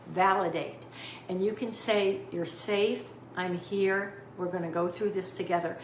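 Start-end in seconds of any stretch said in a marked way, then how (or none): 2.3-5.8 soft, low and calm, nearly a whisper; calm soft reassurance. Shown as a demonstration. Caregiver calming a scared mom, soft and low. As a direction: soothe a frightened parent gently. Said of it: "Do it in a calm, soft, low voice, almost whisper it".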